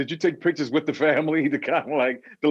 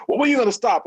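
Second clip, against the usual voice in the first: imitating people; 11 semitones higher, 4 dB louder, much faster than usual. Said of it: "That's what people say".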